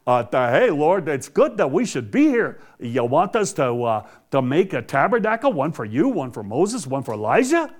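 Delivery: lightly acted, fumbling Peter blurting it out; mock blurting Peter. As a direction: imitate someone babbling with a bobbing tune and hesitations. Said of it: "so he blurted this out".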